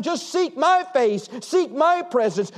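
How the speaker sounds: slow, drawn-out urging; slow appeal. Retold or imitated. Preacher voicing God to divided churches, slow appeal. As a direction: stretch each word, pleading as God.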